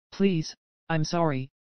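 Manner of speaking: slow, understated broken plea; a touch of a cracking voice, dragged out; voice breaking. Acted. Husband begging his wife's forgiveness, slow and lightly broken. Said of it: "his voice breaking".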